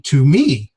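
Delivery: "to me" pushed out with a pitch peak; contrastive stress. Shown as a demonstration. Teacher explains emphatic Greek pronoun, "to me" stressed in contrast. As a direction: stress "to me" against someone else. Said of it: "normally that's giving contrast".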